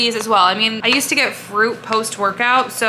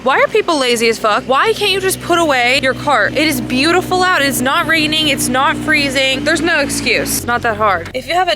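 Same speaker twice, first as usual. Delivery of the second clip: annoyed rant; 4 semitones higher, 4 dB louder than usual. Real, not acted. Ranting about carts left out.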